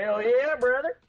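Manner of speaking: put-on country accent. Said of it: "speaking like I'm country".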